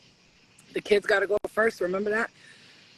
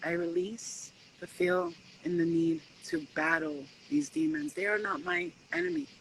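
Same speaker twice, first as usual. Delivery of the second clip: calm affirmation; 5 dB quieter than usual. Shown as a demonstration. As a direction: say it softly like a quiet mantra. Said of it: "start saying to yourself".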